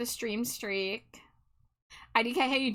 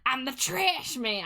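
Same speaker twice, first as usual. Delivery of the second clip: quoting the sound redeem; 3 semitones higher, slower than usual. Retold or imitated. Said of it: "I do have that as a sound redeem".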